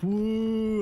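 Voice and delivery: high, loud taunting woo; mocking woo. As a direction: jeer it like a kid egging on a fight. Kids mocking his outburst.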